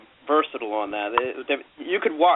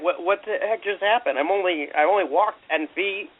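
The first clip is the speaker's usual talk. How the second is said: higher, slow, baffled exclamation; mock bewilderment; 4 semitones higher, slower than usual. Baffled walker hearing a new accent ten feet on, mock bewilderment. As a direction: play up being thrown, drawing it out.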